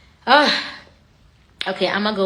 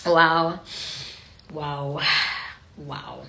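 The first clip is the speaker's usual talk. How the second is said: emotional; 7 semitones lower, much slower than usual. Real, not acted. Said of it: "I'm feeling some type of way".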